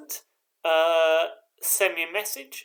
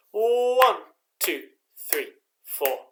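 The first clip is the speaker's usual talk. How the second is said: count-in; 3 semitones higher, 5 dB louder, slower than usual. Shown as a demonstration. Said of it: "I'll count you in".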